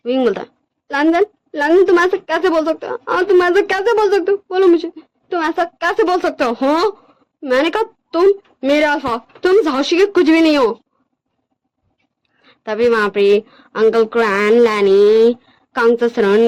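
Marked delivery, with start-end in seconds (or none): 0.9-10.8 distressed, pleading character voice, mildly raised; pleading Wing. Acted. Wing begs Lanjan not to reject their love, pleading. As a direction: plead urgently, stumbling over repeated words.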